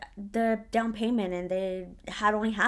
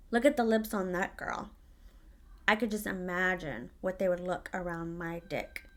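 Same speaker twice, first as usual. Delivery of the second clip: lower, quieter leering aside; sleazy boss; 5 semitones lower, 6 dB quieter than usual. Retold or imitated. Quoting the manager ogling a customer, low sleazy aside.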